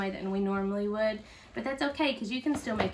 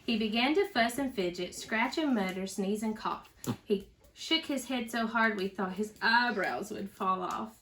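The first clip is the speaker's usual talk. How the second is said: put-on lively storybook reading for kids; reading to children. A narrator's reading. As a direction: read it out to a little one, with bounce. Teacher reads picture book aloud.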